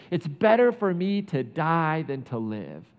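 Jonah's death wish. Retold or imitated. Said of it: "And he says it again".

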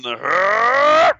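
long, rising groan; imitated Stallone noise. Co-host mimicking Sly's missing voice, drawn-out noise. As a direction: draw out a loud mock groan. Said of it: "he hasn't done his voice yet".

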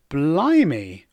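quaint, drawn-out exclamation; politely taken aback, swooping tune; old-fashioned surprise. Shown as a demonstration. Teacher mimics dated English exclamation, politely surprised. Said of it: "very polite and old-fashioned way of saying".

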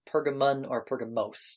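"Pergamon" ending in N, "Pergamos" ending in S; alternative pronunciations. Shown as a demonstration. Game master gives variant names, "Pergamon" then "Pergamos". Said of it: "It's also pronounced".

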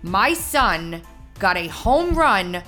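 normal talking voice

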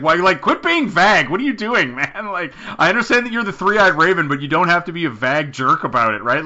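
exasperated. Pretend. Fan scolding Bran for being vague, exasperated. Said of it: "And it's like".

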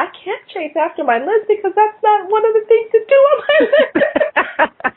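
giggling Toad line, words breaking into laughter; retelling the story line mid-laugh; laughing through the quote. Retold or imitated. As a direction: quote it while laughing, pitch up high. Quoting Toad while laughing.

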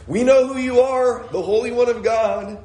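high-pitched mock outcry from the congregation; imitated crying out. Preacher imitates the possessed man in the synagogue, crying out high. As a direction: call it out high, as a sudden interrupter. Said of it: "Somebody starts crying out".

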